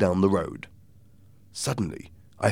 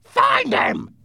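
harsh, slow, rasping shout; strained villain's yell; Blind Pew; 5 dB louder, slower than usual. Acted. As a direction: roar the accusation, dragging each word. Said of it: "Blind Pew shouted".

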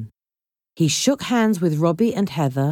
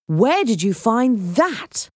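slow, higher question full of wonder; amazed; 6 semitones higher, slower than usual. Acted. Assistant asks Heather about the statue, amazed. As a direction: marvel at it, stretching the words.

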